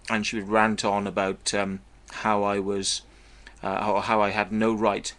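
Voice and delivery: talking while chewing gum; words round a wad of gum; mouth full. Real, not acted. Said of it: "I can't speak with a chewing gum in my mouth".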